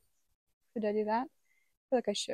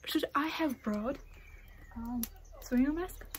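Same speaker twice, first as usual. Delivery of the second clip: whisper; 3 semitones higher, 7 dB quieter than usual. Real, not acted. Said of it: "speaking a little not that loud".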